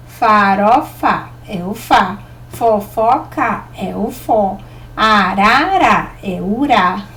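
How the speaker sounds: slow, spaced-out syllables for each word. Shown as a demonstration. Teacher showing children which syllable repeats, syllable by syllable. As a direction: draw out each example word, then name its syllable.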